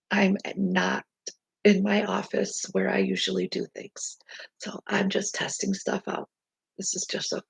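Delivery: soft whisper from bed; whispered aside. Real, not acted. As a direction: drop to a whisper, just testing. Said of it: "coming to you from, uh, my bed".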